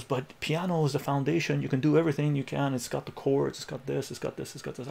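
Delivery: lightly voiced teacher rattling off arguments; protesting teacher.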